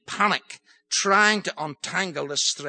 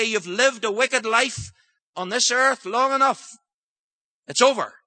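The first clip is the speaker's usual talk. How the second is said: voice of God judging; 8 semitones higher, 4 dB louder than usual. Acted. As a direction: pronounce the end of a wicked life. God pronounces judgment on sinner.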